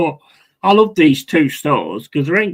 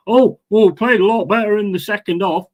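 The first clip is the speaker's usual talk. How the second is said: higher, fast, sarcastic parody; mocking quote; 5 semitones higher, faster than usual. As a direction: rattle it off like a lame excuse. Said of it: "where it was like fucking".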